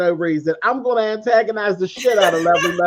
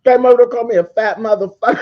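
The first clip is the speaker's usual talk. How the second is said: quick, louder outraged retelling; indignant fast retelling; 3 semitones higher, 4 dB louder, faster than usual. Retold or imitated. Telling the stream she came to insult me, fast and indignant. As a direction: rush it out, loud and indignant.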